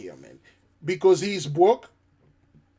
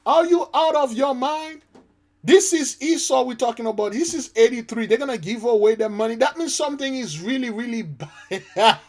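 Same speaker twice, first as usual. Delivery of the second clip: much higher, disbelieving, leaning in; you can't believe what you're hearing; incredulous outburst; 7 semitones higher than usual. Real, not acted. Disbelief at Gates giving away money.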